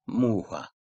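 "muha" said "MU-ha"; stress on U, not A. Shown as a demonstration. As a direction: hold the U of "muha" and drop off on A. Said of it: "A'nın üzerine koyarsanız başka bir anlama gelir".

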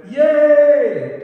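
high, loud drawn-out mock cheer; loud class response. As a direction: imitate a roomful of eager kids shouting. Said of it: "they all responded loudly".

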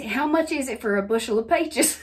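slipped into Southern country talk; "peaches" as "pie-ches", Southern style; Southern accent. Retold or imitated. Asking at a peach stand, Southern accent. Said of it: "where'd your city girl accent go".

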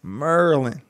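"Maryland" in two syllables, "MUR-lin"; local Maryland pronunciation. Shown as a demonstration. Proud local repeating it, "Maryland" as "Murlin". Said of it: "Not Maryland. We from Maryland".

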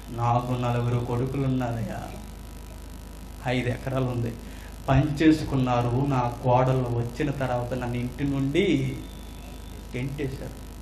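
low, subdued, understated lament; sorrowful lament. Acted. Abandoned mother tells a passer-by of her sons, subdued sorrow. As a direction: quietly confide a mother's hurt.

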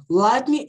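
Lightning said slowly as LAIT-ning; slow pronunciation demo. Shown as a demonstration. Teacher modelling Lightning slowly for students. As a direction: spell out Lightning slowly for the class. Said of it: "Lightning é o raio".

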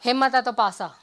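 loud, high, cocky dare; bearded sardar voice. Acted. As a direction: challenge her with a swaggering grin. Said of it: "challenge to every sardarni".

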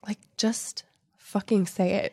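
whispered, fed-up aside; exasperated whisper. Real, not acted. Friend whispering frustration about a dumb heroine, exasperated whisper. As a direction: hiss it under your breath in frustration.

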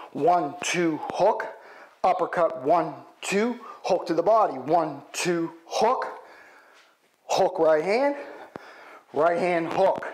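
calling combos while punching; hitting a punching bag. Shown as a demonstration. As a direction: count out each punch mid-drill. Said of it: "In other words".

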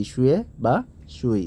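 শুয়ে as "sue", সুই as "sui"; pronunciation demo. Shown as a demonstration. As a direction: offer শুয়ে and সুই as two alternative readings. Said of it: "এর উচ্চারণটা হবে". (শুয়ে বা সুই দুভাবে উচ্চারণ)

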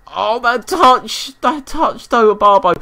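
high, drawn-out gasp of admiration; stretched-out awed praise; real delight. Real, not acted. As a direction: marvel at the touch. Admiring a skilful touch in game.

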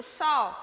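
"só" stressed, pitched high; monossílabo tônico. Shown as a demonstration. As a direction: say "só" as a strong, stressed syllable. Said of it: "ele é um monossílabo tônico". ("só" tônico, com voz mais aguda)

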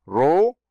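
"رو" as "ru", R plus a u vowel; damma added. Shown as a demonstration. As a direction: release the R of "رو" into an oo sound. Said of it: "ثم الضمة". («رو» بالراء مع الضمة)

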